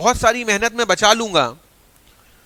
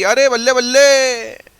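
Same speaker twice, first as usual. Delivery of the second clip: mock cheer; 3 semitones higher, 4 dB louder, slower than usual. Teacher celebrates no rote learning.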